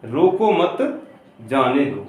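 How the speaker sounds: slow रोको मत as one unit, then a break before जाने दो; pause after मत. Shown as a demonstration. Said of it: "पूरा अर्थ ही बदल जाता है". (रोको मत, फिर रुककर जाने दो)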